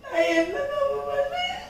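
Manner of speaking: crying lament. Acted. Mother grieving her daughter's suffering to a neighbour, crying. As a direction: lament through tears, pitch lurching. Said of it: "சரி, அழாதீங்க".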